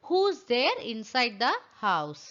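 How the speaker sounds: each word spaced out slowly for learners; slow, careful model question; slow dictation. Shown as a demonstration. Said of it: "எப்படி சொல்லலாம்".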